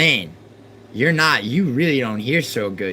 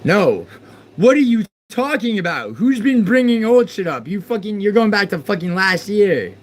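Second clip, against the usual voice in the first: loud, high, exasperated yelling; angry outburst; 9 semitones higher, 4 dB louder than usual. Real, not acted. Streamer yelling at a chatter in disbelief. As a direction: shout back in real frustration.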